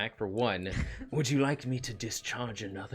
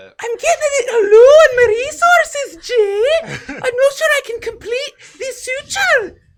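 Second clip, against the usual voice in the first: acted high, loud whine in Irish accent; 18 dB louder than usual. Voicing a healing device complaining its resources are low: acted whining in Irish accent. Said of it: "whine about how low your resources is".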